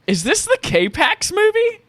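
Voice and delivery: very high, slow rising guess; unsure question. Real, not acted. Guest guesses the movie as a question, high. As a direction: ask it hesitantly, way up high. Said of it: "phrase it as a question".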